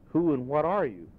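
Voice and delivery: loud, high demand; old man confronting a spirit, demanding. A narrator's reading. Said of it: "Scrooge demanded".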